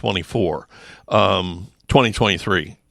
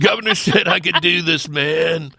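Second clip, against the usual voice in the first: higher-pitched stoner dude voice; Keanu Reeves; 4 semitones higher than usual. Acted. Officer replays the pulled-over driver, stoner dude impression. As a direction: do the laid-back slacker dude once more for laughs.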